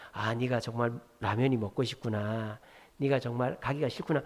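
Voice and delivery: low, soft reflective acknowledgement; empathizing. Retold or imitated. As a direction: softly show you understand the child. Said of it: "공감만 해주라".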